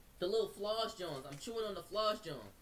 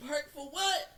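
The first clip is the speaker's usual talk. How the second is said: disbelieving high rise on what; asking in disbelief; incredulous; 7 semitones higher, 6 dB louder, slower than usual. Retold or imitated. Retold confrontation with police.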